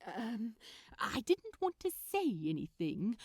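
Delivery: fussy, polite, lightly voiced; prim Aziraphale. Aziraphale politely questioning Crowley about the phone, prim and fussy. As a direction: gently accuse with proper manners.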